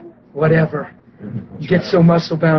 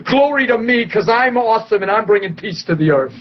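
God voiced. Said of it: "burst out in song and said".

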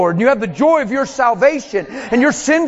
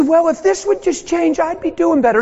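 whiny believer; 5 semitones higher than usual. Retold or imitated. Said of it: "You'll just say".

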